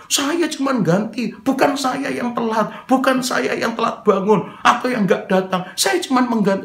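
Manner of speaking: high-pitched, indignant mock outburst; hammed-up angry self-defence; exploding in protest. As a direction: blow up at a false accusation. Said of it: "mungkin kalau saya sudah meledak".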